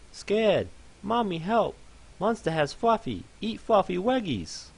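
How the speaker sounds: a tiny pony shrieking for mommy; terrified fluffy pony. Acted. Trapped pony panics.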